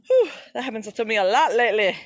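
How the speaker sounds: winded, laughing exhale; catching breath with a laugh. Real, not acted. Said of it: "Sorry, I'm out of breath".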